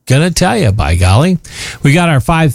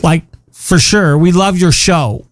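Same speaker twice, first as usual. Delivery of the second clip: put-on valley girl. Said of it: "Valley Girl thing".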